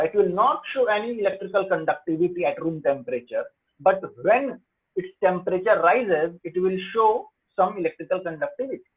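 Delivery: slow, word by word definition; slow dictation pace. Shown as a demonstration. Teacher dictating the definition to students, slow and clear. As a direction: spell it out slowly so they can write. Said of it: "teacher dictating definition slowly".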